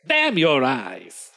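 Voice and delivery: slow, drawn-out curse; hammed-up trader's parting curse; cursing trader. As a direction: stretch the oath out theatrically. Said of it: "The trader says".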